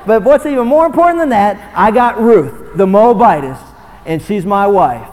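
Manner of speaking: loud, high proclamation, slowing at the end; loud exultant cry easing down; triumphant shout. Retold or imitated. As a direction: announce his bride with pride. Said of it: "Boaz wasn't shouting".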